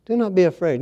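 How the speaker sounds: soft, calm reassurance; hushed, calm angel's reassurance; very calmly. Retold or imitated. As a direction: say it gently, like soothing a frightened man. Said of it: "And he said it very calmly".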